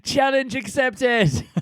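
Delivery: high, very drawn-out declaration; mock-heroic acceptance. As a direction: stretch it out like taking up a dare. Mock-taking up a dare.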